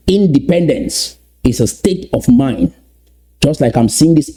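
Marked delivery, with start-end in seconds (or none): 0.1-2.7 stretched out, each word given time; slowly repeated. Shown as a demonstration. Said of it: "Let me repeat that slowly".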